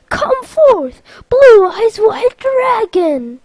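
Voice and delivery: loud, high-pitched summoning cry; battle summons. Acted. Sora summoning his card in battle, bellowed summons. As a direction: call out the monster with drawn-out grandeur.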